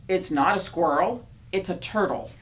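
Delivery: mild mock argument; arguing back. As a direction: insist right back. Quarrel reply.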